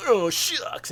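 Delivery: put-on young Luke sulks over chores; sulky Luke. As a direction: kick the dirt sulking.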